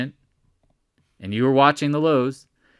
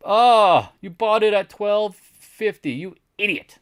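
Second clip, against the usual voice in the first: high mock-scolding voice; mock insult; 7 semitones higher, 4 dB louder, slower than usual. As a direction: tease the buyer in a raised put-on voice. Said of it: "You idiot sandwich".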